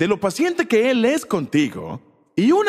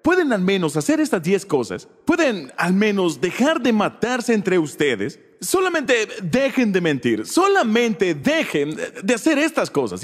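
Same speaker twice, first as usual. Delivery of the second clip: mock exasperated God. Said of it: "es algo divertido".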